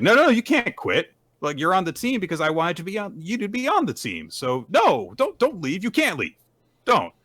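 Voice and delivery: high, urgent pleading. Retold or imitated. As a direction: beg her to stay. Girl begging teammate not to quit.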